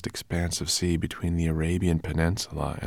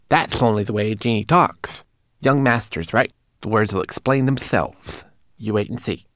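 higher, eager little manikin voice; little homunculus; 5 semitones higher, 7 dB louder than usual. Acted. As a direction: reassure the others, fussy and quick. Twigleg's little voice.

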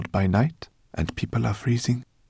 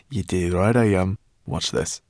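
grinning brownie voice. Acted. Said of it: "Sorrel grinned at her".

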